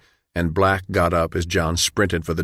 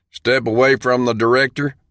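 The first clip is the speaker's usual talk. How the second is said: loud, higher guard's shout; 5 semitones higher, 4 dB louder than usual. Acted. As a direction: sergeant yelling at John to back off. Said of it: "the man shouted".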